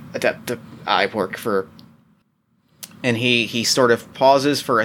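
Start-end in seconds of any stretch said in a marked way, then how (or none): 0.1-1.7 low, halting stammer; panicked stammer. Acted. Cornered doctor answering who he works for, panicked stammer. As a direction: falter over the words, voice dropping. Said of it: "he is sort of panic".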